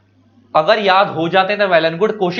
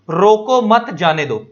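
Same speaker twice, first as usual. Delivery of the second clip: group "रोको मत", pause before "जाने दो"; pause after मत; 2 semitones higher, much slower than usual. Shown as a demonstration. Teacher showing how a comma changes meaning, pause after "मत". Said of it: "के बाद comma लगाया".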